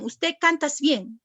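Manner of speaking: "Usted cantas bien" drawn out slowly, word by word; slow down to show what many people say; slow quoted mistake. Shown as a demonstration. Teacher slowly quoting a common mistake to students. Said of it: "muchos dicen".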